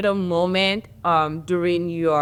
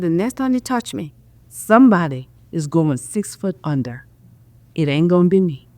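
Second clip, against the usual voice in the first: firm threat. Retold or imitated. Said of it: "I said".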